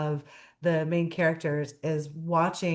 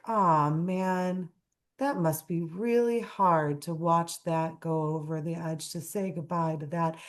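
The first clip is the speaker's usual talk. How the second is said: Sadness voice. Retold or imitated. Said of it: "sadness is like".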